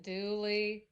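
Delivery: slow, strained forced politeness; through gritted teeth. Acted. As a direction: grit your teeth and say it slowly. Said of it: "Say through grit teeth".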